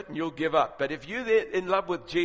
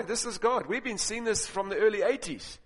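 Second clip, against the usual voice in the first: raised pitch, mildly excited insistence; retold confident declaration; 5 semitones higher than usual. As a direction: quote yourself declaring it with conviction. Retells his instant confident declaration.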